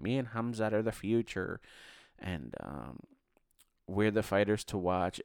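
put-on stronger Irish accent retake; imitating an Irish fighter's brag. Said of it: "that's my Irish accent".

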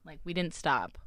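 soft unvoiced whisper. Real, not acted. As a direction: whisper it low. Whispered aside.

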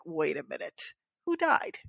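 retold dawning realization, jumping up on "who died"; puzzled realization. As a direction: act out it suddenly dawning on you. Friend's sudden realization, acted out.

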